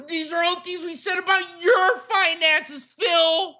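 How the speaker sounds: strained shout, near breaking; exasperated cry. Real, not acted. Yelling at Phil about his finances, exasperated. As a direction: yell it at Phil in disbelief.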